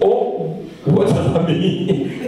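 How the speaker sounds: drawn-out, taken-aback question; taken-aback reaction. Retold or imitated. Preacher re-enacts his reaction to her question, taken aback. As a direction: stretch the question out slowly in disbelief. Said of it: "That's exactly how I was".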